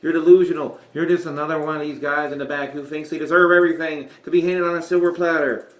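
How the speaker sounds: mock the upstart like a scornful old brawler; gruff Piper impression. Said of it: "trying to do Scott Jackson".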